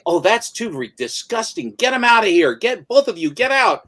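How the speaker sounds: retelling the Borgias throwing them out in disgust, high and loud; disgusted nobleman. Retold or imitated. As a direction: shoo them out like something revolting. The Borgias dismiss the blinded man.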